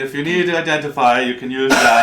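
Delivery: high, loud, excited figure showing off a machine; lab keeper, eager. Acted. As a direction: explain the gadget loudly with eager, high pitch. Figure explains the contraption.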